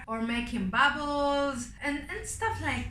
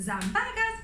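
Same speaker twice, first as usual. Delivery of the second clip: silly wrong word; 10 semitones higher, slower than usual. Acted.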